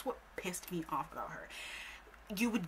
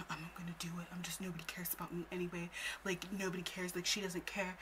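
mumbled sulk; 7 dB quieter than usual. Retold or imitated. Retelling what he said while brushing it off, mumbled sulk. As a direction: say it under your breath, dismissively. Retells his sulky messages.

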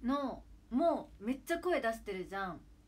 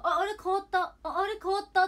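high, loud double-take; acted surprise; 11 semitones higher, 12 dB louder than usual. Viewer reacting to basketball substitutions, acted loud surprise. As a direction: exclaim as if just spotting a change. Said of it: "ってなるじゃん".

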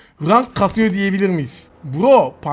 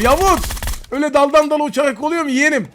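teasing taunt; 6 semitones higher, faster than usual. Real, not acted. Taunting a jumping enemy.

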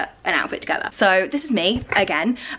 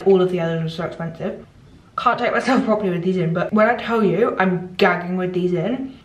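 speaking with strips in her mouth; slightly muffled by whitening strips. Real, not acted. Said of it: "I can't talk properly right now".

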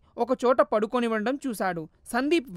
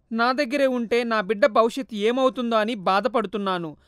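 tearful plea; 3 semitones higher, 6 dB louder than usual. Acted. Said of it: "కన్నీరు కార్చింది".

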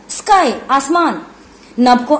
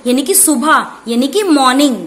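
ordinary delivery

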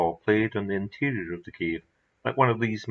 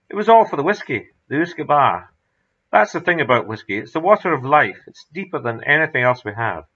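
rhapsodic; 2 semitones higher, 4 dB louder than usual. Acted. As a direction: preach the glory of whisky. MacDonald rhapsodising about whisky.

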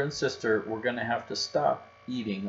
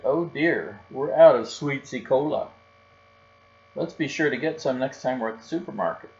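louder, higher dismay of a hapless father; dismayed Papa Bear; 3 semitones higher, 6 dB louder than usual. Acted. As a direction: lament the empty fridge.

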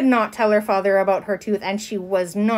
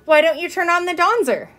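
high-pitched little show-off; proud; 8 semitones higher, 3 dB louder than usual. A narrator's reading. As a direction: show off your new word proudly. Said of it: "proud of her new word".

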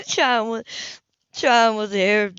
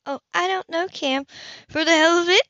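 fed-up woman lashing out at him; angry Hannah; 9 semitones higher than usual. Acted. Angry Hannah confronts Cam.

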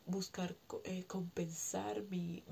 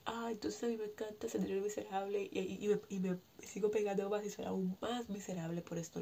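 slightly raised, whiny self-blame; self-pitying inner voice. Shown as a demonstration. Showing listeners the wrong way to think, mildly whiny. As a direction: sound like the spiral of blaming yourself. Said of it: "no se trata entonces de".

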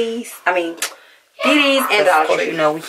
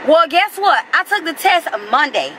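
pitched-up, exasperated venting; real anger; 4 semitones higher than usual. Real, not acted. Telling viewers the test results may be late, exasperated angry venting. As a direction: complain hotly, building. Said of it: "I'm so mad I can't even read right now".

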